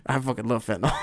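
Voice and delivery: a different, put-on voice with laughter round it; mock stoner manager. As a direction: repeat his line in a goofy put-on voice. Repeats the manager's line, laughing.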